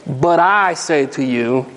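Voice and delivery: Jesus facing the crowd, slow and weighty. Retold or imitated. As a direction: pronounce it like a bold claim of authority. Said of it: "he looks at them and says".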